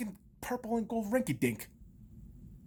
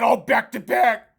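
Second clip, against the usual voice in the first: slow mock whine; drawn-out mocking whimper; mocking fans; slower than usual. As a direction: parody the naive fans' hopes. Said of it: "all you dumb motherfuckers said".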